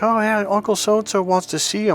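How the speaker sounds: high-pitched mock mom voice; imitated mom. Mom relaying the uncle's invitation to her son, imitated in a high voice. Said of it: "my mom's like".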